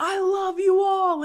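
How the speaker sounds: shrill, high, loud, screaming, declaring voice. Describing a satirical mean chef yelling out to his chefs, imitating a chef screaming. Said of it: "he like screams out".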